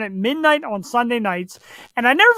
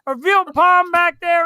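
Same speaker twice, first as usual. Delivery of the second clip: fast, higher tough wiseguy voice, hammed up; tough Italian guy; 8 semitones higher, 4 dB louder than usual. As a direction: play the Jersey Italian tough guy at a drive-thru. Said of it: "act Italian, like, be, like, tough".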